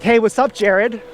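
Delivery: a hint of another person's voice; mimicked greeting. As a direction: imitate someone's breezy greeting. Voicing a loved one's greeting.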